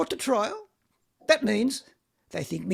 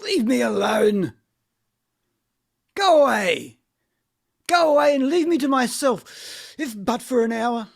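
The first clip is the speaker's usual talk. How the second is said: angry dismissal. Acted. Vanya sending them away.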